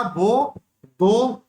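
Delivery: put-on very slow drawn-out baby plea; lisping child. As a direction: stretch it like a toddler begging. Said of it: "तोतली आवाज में". (तोतली आवाज़ में बहुत खींचकर माँगना)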